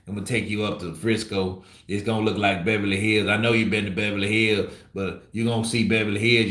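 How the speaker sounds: a lightly voiced Errol Spence, loose Texas swagger; Errol Spence impression. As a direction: hype up a visiting friend showing off Texas, barely changing your own voice. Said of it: "can you do an impression of Errol Spence showing A J around Texas".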